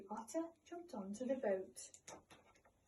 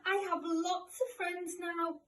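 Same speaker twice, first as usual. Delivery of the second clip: louder and slower, full of joy; said again loudly; 6 semitones higher, 4 dB louder than usual. A narrator's reading. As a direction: call it out happily this time. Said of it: "he was so happy that he said it again loudly".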